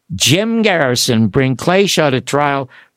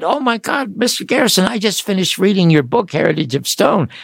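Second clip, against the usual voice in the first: put-on higher-pitched, eager gush of a thrilled young fan; retold excitement; 4 semitones higher than usual. Radio host retelling his first call to Garrison, excited fan gush. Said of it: "And I got all excited".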